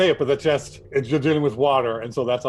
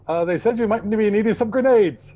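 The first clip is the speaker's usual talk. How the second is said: higher, louder eager offer; eager Strax; 8 semitones higher, 5 dB louder than usual. Retold or imitated. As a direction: offer grenades like a keen soldier. Quoting Strax offering grenades.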